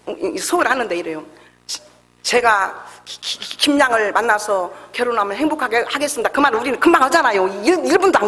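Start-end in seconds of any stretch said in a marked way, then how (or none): 1.7-6.3 imitating a stammer on each syllable. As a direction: stutter through the proposal. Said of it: "얼마나 말을 더듬는지요".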